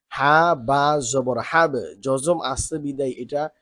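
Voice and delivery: slow, deliberate reading of each syllable; drill recitation. Shown as a demonstration. Teacher showing students how letters join, slow recitation. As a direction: spell it out slowly for the class.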